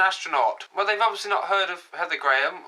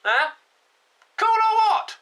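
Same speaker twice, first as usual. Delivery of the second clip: excited high squeal; 14 semitones higher, 4 dB louder than usual. Acted. Showing off Lego spacesuit.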